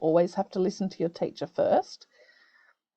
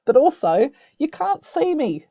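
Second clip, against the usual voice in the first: loud and high on the microphone; too loud; 7 semitones higher, 6 dB louder than usual. Shown as a demonstration. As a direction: show how close-mic sounds too loud. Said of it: "my voice will be probably really too loud".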